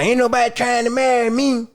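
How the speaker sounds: hammed-up pity-me voice; mocking whiny woman. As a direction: imitate a lonely woman whining. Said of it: "why the fuck we talking like that".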